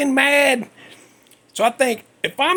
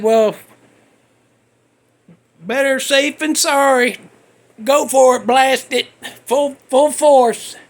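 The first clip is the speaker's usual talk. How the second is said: inner voice. Retold or imitated. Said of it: "And my brain said".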